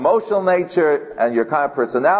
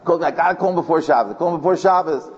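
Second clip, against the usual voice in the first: higher-pitched, pressing imitation of a caller; retold urgency, pitched up; urgent caller; 4 semitones higher than usual. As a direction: mimic someone urgently chasing a callback. Urgent caller chasing him.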